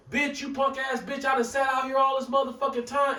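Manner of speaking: high-pitched angry tirade, acted out; threatening rant. Customer cursing the gas station clerk over change, angry imitation. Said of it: "and he threatened to kill her".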